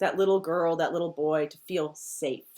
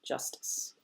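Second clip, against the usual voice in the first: breathy whispered word; 12 dB quieter than usual. Real, not acted. Reading a card to viewers, whispered. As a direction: whisper it like a secret.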